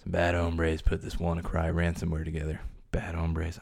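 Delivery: a hint of Donald Trump saying bad hombres; mock presidential quote; Trump impression. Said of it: "As our forty-fifth president of the United States would say".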